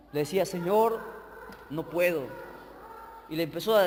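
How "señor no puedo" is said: low, soft, defeated prayer; subdued, mildly tearful pleading; tearful plea. Retold or imitated. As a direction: retell a tearful admission to God. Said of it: "así, con lágrimas".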